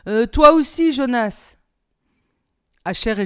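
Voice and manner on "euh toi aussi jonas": hesitant. A narrator's reading. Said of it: "Puis de nouveau cette hésitation".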